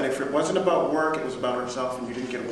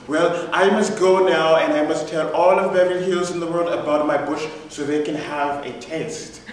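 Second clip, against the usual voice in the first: grand sign-off; 4 semitones higher, 6 dB louder than usual. Retold or imitated. Boss signing off grandly.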